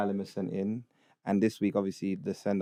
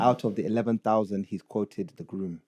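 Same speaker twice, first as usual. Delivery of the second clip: put-on Ugandan accent; 2 semitones lower than usual. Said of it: "read it in a Ugandan accent".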